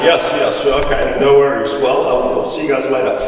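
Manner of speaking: loud, breezy Anglo-Australian voice; Anglo Australian accent. Retold or imitated. Neighbour saying goodbye, in an Anglo Australian accent. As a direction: do an easygoing Anglo Aussie accent. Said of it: "He was so Anglo".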